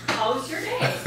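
easy Minnesota "How's your day?" with a falling end; lightly voiced Minnesota drive-thru greeting; real Minnesota accent. Shown as a demonstration. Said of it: "That's not how we sound it".

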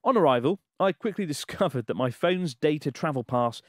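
measured, emphatic letter-reading voice; story read-aloud. Acted. Host reading a listener's Japan travel story aloud, dramatic narration.

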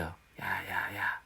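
very soft, low calling; devil's whisper. Retold or imitated. Satan whispering to get a person's attention, hushed. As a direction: murmur it secretly, far under normal voice. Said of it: "이렇게 속삭여요".

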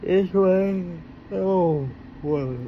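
sudden high startled exclaim; surprised. Real, not acted.

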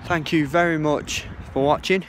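breathless after running; puffing between words; out of breath. Real, not acted. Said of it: "Bit out of breath at the moment".

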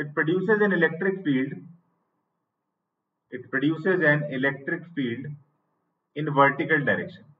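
each phrase said very slowly and spaced out for students to write down; teacher dictating notes at writing speed; slow dictation. Shown as a demonstration.

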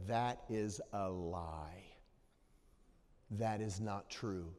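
slow, soft whispered reassurance; grandma whispering gently to a crying girl; hushed whisper. Retold or imitated. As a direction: whisper it calmly to the child. Grandma calmly comforts granddaughter.

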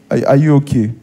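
loaded check-in with an edge; confrontational asking. Acted. Pastor re-enacting a husband's question, confrontational. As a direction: ask as if picking a fight. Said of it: "that's not how you ask".

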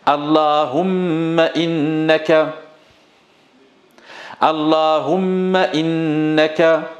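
teacher drilling Allahumma innaka line by line; call and repeat drill. Shown as a demonstration. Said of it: "Allez avec moi".

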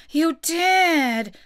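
high, loud contradiction; squabbling Hatter; insistent retort. A narrator's reading. Hatter contradicts March Hare.

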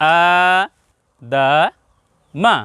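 আ held long, দা মা short. Shown as a demonstration. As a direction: stretch আ, clip দা and মা. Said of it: "খাড়া জবর থাকলে টান একটু লম্বা হবে". (আ টেনে, দা মা সংক্ষেপে)

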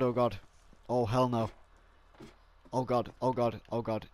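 gibber in terror over the body; terrified gibbering. Acted. Finds friend's body, panics.

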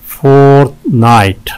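"फोर्टनाइट" in two held beats; syllable breakdown. Shown as a demonstration. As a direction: stretch both halves of "फोर्टनाइट". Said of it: "दो syllables हैं इसमें". ("फोर्टनाइट" दो खिंचे हिस्सों में)

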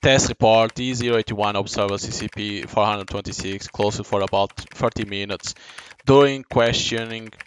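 measured, even report read. Acted. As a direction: read it like a dry lab file. Reads game test report aloud.

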